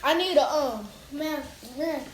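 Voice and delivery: pained, burning mouth; mouth burning from spicy food. Real, not acted. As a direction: gasp through the spicy heat. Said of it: "Oh, my mouth is burning".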